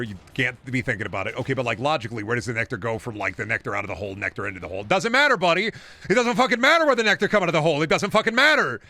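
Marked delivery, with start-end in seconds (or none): 4.8-5.7 much higher, louder, fed-up yell; frustrated outburst at the game; exasperated shout. Real, not acted. Blows up at himself over nectar. 5.7-8.8 high, loud, exasperated shouting; yelling at the game's logic; frustrated yelling rant. Real, not acted.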